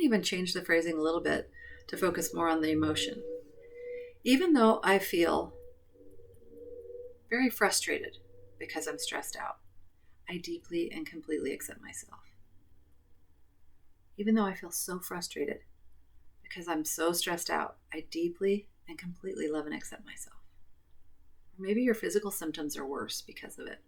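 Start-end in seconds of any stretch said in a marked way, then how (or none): 4.2-17.8 guided tapping script. Acted. Leads tapping setup statements. 17.9-20.4 whisper. Acted. Whispered close of affirmation.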